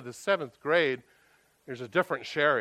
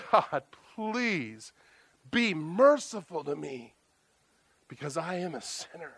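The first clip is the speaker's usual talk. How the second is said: a broken man begging mercy, understated; humble crying prayer; 2 semitones higher, slower than usual. Acted. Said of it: "And he's crying".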